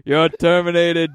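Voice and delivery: robot voice. Retold or imitated. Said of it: "a really robotic".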